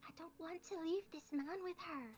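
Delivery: high, hushed half-whisper under the breath. Player voicing a character who half-whispers back to a companion during the story, half-whispering back. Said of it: "He whispers back".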